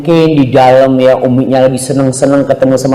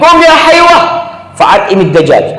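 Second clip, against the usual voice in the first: mother calling; 12 semitones higher than usual. Retold or imitated.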